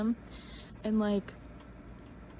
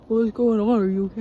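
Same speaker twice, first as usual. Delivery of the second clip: alarmed; 10 dB louder than usual. Retold or imitated. Boyfriend woken by tickling.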